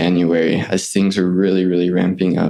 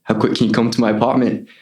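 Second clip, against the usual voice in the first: put-on Australian accent. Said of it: "use his voice with an Australian accent".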